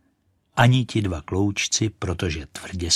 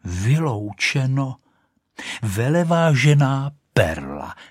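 haughty correction; 4 semitones higher than usual. Acted.

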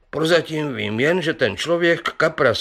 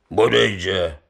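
exclamation; 4 semitones lower than usual. Acted. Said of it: "zvolal Sládek Pivoňka".

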